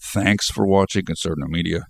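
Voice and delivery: blocked nose, short of breath; stuffed up. Real, not acted. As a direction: talk through a stuffed-up nose, gasping. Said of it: "I'm just gasping for air here. I'm totally stuffed up".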